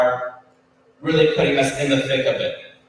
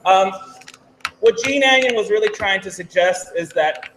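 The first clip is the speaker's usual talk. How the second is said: higher, projected lecturing voice; teacher voice; 4 semitones higher than usual. Real, not acted. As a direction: pitch it up to reach the room. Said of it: "Could I use my teacher voice".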